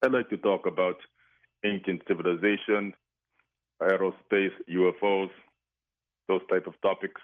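lightly put-on Greek accent, disguising his voice; mystery guest hides his real voice behind a Greek accent. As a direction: caller playing a guessing game, in a light fake Greek accent. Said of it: "That was my new Greek accent".

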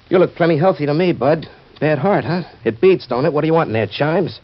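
mock a suspicious stranger poking fun; sneering suspicion. Joe mimics what people think of his four F, sneering. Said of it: "what they're thinking goes like this".

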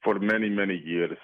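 lightly put-on Greek accent, disguising his voice; mystery guest hides his real voice behind a Greek accent. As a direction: caller playing a guessing game, in a light fake Greek accent. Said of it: "That was my new Greek accent".

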